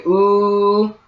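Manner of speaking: ooh held long as a sound demo; slow, sustained ooh. Shown as a demonstration. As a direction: stretch out ooh for the start of a W. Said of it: "you say ooh".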